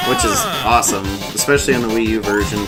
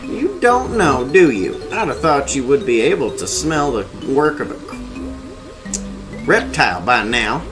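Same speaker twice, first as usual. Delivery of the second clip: put-on high, cranky old crazy voice; crazy old man voice; 5 semitones higher than usual. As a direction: rant like a mad old ape. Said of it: "See if I can do a crazy voice".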